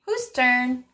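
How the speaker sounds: put-on speech therapist modeling turn-taking for a child, sing-song. Shown as a demonstration. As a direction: model it slowly and playfully for a toddler. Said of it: "So you can say".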